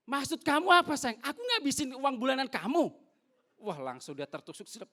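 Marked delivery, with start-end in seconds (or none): 0.1-2.9 high, loud hurt comeback; wife taking offence at her husband, high and sharp; offended retort. Retold or imitated. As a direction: snap back as the stung wife. Wife offended, quarrel retold.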